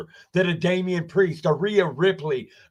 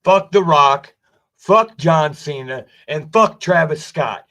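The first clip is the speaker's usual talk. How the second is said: shouted out hard, each fuck hit loud; loud defiant shout; loud declaration; 2 semitones lower, 7 dB louder than usual. Real, not acted. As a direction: yell it at them like a public callout. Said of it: "I'll say it like this".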